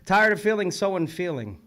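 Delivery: poem recital. Real, not acted. Reads out a poet's line.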